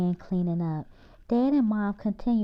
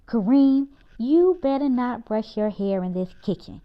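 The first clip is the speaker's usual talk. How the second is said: stern mom; 2 semitones higher, 5 dB louder than usual. Acted. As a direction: scold him before he brushes his hair. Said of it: "Mom said sternly".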